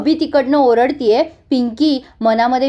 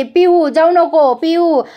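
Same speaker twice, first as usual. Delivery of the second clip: mock shout; 4 semitones higher, slower than usual. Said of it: "छबी जोरजोरात ओरडत असते".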